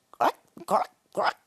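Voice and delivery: high chirruping cluck; mock cricket chirrup. Narrator voicing crickets at night, high chirrup. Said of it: "chirruped the crickets".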